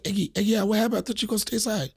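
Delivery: her way of talking. Retold or imitated. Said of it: "That's just how she talked".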